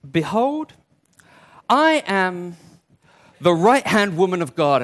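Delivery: loud, proclaiming mock boast; mock grandiose. Preacher misquotes Mary's answer, mock grandiose. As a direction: announce yourself with hammed-up importance.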